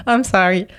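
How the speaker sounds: put-on English laid on with a heavy Québécois French accent; to police at the bridge, heavy Québécois accent with a laugh; thick French accent. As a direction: play the lost foreigner, accent thick, a laugh on the end. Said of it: "le plus gros accent".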